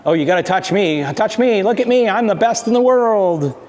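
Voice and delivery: lightly voiced pushy, needy dog; attention-seeking dog. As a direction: play an eager dog begging for attention, pitch rising. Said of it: "This isn't just being".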